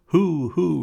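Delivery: loud, high calling out; excited yelled question; crowd shouting. Acted.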